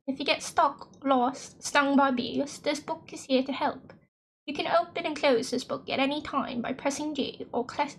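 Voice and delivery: lightly put-on British reading voice; British accent. Player reading the guidebook aloud, trying a British accent. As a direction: read it out in an attempted British accent. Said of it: "sustain, like, a British accent".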